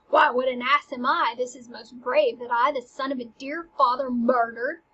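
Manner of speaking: half-acted rising rage at himself; building frenzy. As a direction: work yourself up from annoyed to furious. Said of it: "work himself up into a murderous frenzy".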